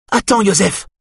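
mildly voiced plea to wait; calling out. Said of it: "entend-elle Evelyne crier".

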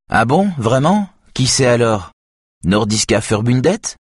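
eager hacker, voice leaping up; enthusiastic. A narrator's reading. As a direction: burst out with keen excitement. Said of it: "d'une voix enthousiaste".

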